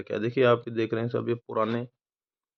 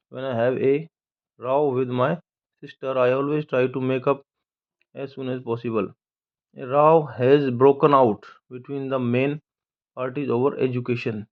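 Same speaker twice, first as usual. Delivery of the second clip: slow example read; much slower than usual. Shown as a demonstration. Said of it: "reading example sentences".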